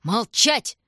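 loud, rising bark; furious command. A narrator's reading. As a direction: shut him up with rage. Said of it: "закричал король".

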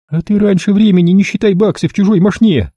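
high, loud snapping retort; high female retort; snapping woman. A narrator's reading. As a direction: snap back at him. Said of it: "огрызнулась она".

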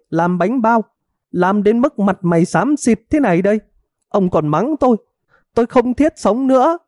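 high, theatrical wailing lament; hammed-up wife's tearful complaint. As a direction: wail like a wronged wife, pitched far up. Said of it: "gào khóc om sòm".

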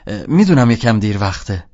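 put-on a boy putting on a loud grown-up manner. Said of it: "لحن آدم بزرگا رو گرفتم".

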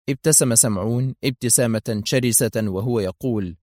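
ordinary delivery

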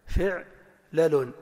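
فعلل very slowly as fi'...la-lun; syllable-by-syllable. Shown as a demonstration. Teacher shows kasra then sukun, slowly split. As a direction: break فعلل after the silent 'ayn. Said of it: "بكسر الفاء وسكون العين".

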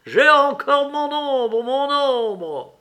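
high, slow crowing shout; shouting laughing. A narrator's reading. Little man shouting his taunt in the street, gleeful. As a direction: crow it down the street. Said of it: "éclatait de rire et criait dans la rue".

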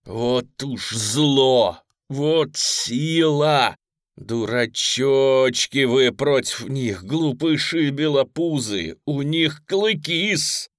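slow, loud, hoarse pleading; hoarse plaintive voice. Acted. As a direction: rasp it out, voice almost gone. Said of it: "жалобно и точно потеряв голос, просипел".

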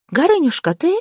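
high, anxious call into the dark; frightened call. Acted. Zateya calls for Gorynya in the dark, frightened. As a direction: call out, scared and unsure.

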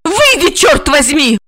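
high, exasperated female shout; high-pitched cursing command; angry cry. A narrator's reading. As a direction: order him out, losing patience. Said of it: "закричала Ольга".

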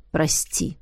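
low, soft contrite voice; low hushed apology. A narrator's reading. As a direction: say it quietly, ashamed. Roderick apologising after pause. (тихо и виновато)

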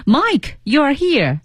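lightly voiced high relieved call; desperate exclaiming. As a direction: echo a desperate cry, lightly. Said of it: "She exclaimed desperately".

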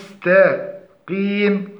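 "المستقيم" slowly, with thin t kept from turning emphatic; light ta. Shown as a demonstration. Teacher models the fix, light ta in المستقيم. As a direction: separate the light "taa" in "المستقيم" before qeem. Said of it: "والصواب تحقيق مخرج التاء".

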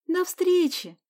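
put-on high, lightly smiling girl's goodbye. A narrator's reading. Sonya bids friends goodbye, smiling. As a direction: say it high with a smile. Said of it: "улыбнулась Соня".

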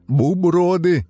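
high, loud garbled word; childlike mispronunciation. A narrator's reading. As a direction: mangle it like a small child. Banana mangles word. (детское коверканье)

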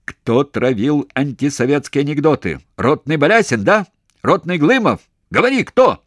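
high, loud shouting demand; furious interrogation. A narrator's reading. Interrogator shouts at the prisoner for names. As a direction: scream at him for names.

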